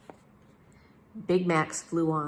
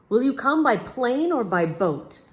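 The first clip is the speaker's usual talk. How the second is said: higher, louder, slow royal voice; eager king; 7 semitones higher, 6 dB louder than usual. A narrator's reading. King asking the detective how he'll travel, eager. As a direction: ask eagerly like a fussy king. King asks Big Max.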